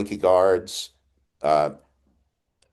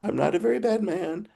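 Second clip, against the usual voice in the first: much higher, softer, comic little-man voice; Wizard's squeaky protest; 4 dB quieter than usual. Retold or imitated. Unmasked wizard answers Dorothy's accusation in high soft voice. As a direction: squeak it out like a flustered old wizard. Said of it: "And he wisely says".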